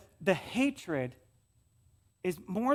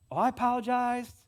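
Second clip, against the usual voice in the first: smug; 6 semitones higher, 4 dB louder than usual. Retold or imitated. Imitating a smug apologizer.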